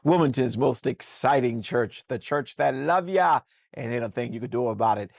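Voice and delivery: booming host intro, lively and loud; upbeat church talk-show welcome; show opening. Acted. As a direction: open the show like a hyped-up pastor host.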